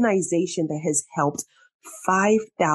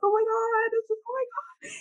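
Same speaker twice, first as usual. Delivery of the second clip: stunned disbelief; 5 dB quieter than usual. Retold or imitated. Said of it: "I was like".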